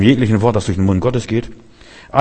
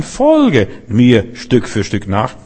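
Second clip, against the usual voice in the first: slow, calm and patient, Stück für Stück spaced out; patient, inviting slowness; gentle invitation; much slower than usual. Shown as a demonstration. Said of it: "Er zwingt nicht".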